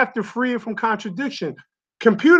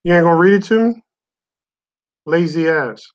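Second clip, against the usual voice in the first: annoyed; 3 semitones lower, 4 dB louder, faster than usual. Real, not acted. Mocks Siri for not reading.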